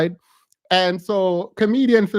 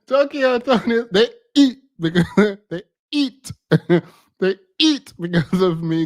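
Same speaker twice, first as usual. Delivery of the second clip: laughing mock quote; 2 semitones higher than usual. Host quoting the clip lady, laughing through it. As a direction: repeat her words through giggles.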